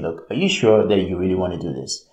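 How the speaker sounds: low, quick, understated worry; concerned. Retold or imitated. Loved ones questioning your plan, concerned. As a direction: gently check on them, imitating a worried friend. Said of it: "is a concerned voice".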